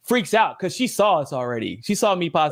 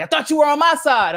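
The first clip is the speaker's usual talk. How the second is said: high, whiny betrayed voice; mild mock hurt; imitating guest; 10 semitones higher, 3 dB louder than usual. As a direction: complain like you've been tricked. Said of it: "they're like".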